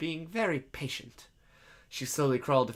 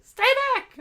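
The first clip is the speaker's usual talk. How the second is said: high-pitched frightened shout; scared yell; 9 dB louder than usual. Acted. Scared girl warns a stranger off, frightened yell. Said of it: "Stacy yelled back, scared".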